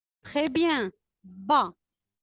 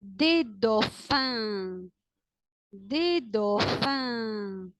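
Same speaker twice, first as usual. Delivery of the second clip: slow model word; 3 semitones lower, much slower than usual. Shown as a demonstration. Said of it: "teacher models a word to repeat".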